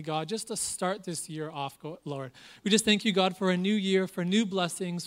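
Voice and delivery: hushed congregational prayer. Acted. Leads a prayer.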